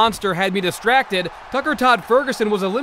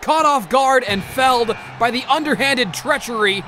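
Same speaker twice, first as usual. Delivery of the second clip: raised, heated rant; angry tirade; 4 semitones higher than usual. Acted. Commentator ranting about the treachery of Pig Swine, heated. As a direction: vent fury at the treachery. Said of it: "going off on a tirade".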